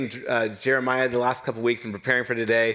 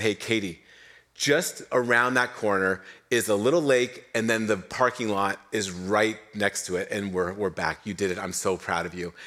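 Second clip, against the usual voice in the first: reassuring; 5 semitones lower than usual. Retold or imitated. Leader reassuring tired wife.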